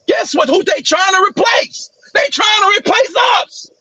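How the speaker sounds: heated shouting. Real, not acted. Heated political rant.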